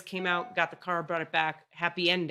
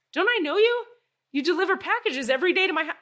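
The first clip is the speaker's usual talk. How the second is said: excited; 10 semitones higher, 5 dB louder, faster than usual. Retold or imitated. Greeting the mail carrier excitedly.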